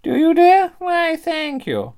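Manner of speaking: put-on swooping falsetto lady; genteel old-dear character. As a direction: coo it high like a flattered dear. In-character cosplay opening sketch.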